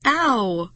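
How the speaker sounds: mild acted "ow" of pain; pained wail. A narrator's reading. Narrator hit by hot goo, mildly wailing. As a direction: wail briefly, lightly acted. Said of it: "I wailed".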